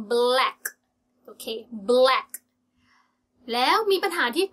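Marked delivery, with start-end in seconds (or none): 0.1-0.6 BLACK with the tongue lifted for the L; clear L in black. Shown as a demonstration. Teacher shows learners the L, clearly pronounced black. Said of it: "ลิ้นจะขึ้นไปนะ". 1.9-2.3 "black" said firmly, tongue up for the L; clear L in black. Shown as a demonstration. Teacher repeats the word for learners, clear L. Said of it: "ลิ้นจะขึ้นไปนะ".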